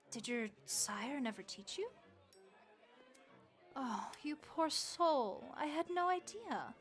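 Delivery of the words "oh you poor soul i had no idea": slow, pitying sympathy, rising higher; sympathetic. Acted. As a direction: draw it out with tender pity. Pities guest whose sire never taught them.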